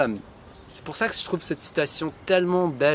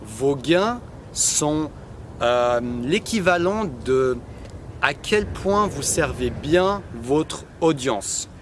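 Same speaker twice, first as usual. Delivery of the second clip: slow translation; much slower than usual. Shown as a demonstration. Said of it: "En français, ça donne".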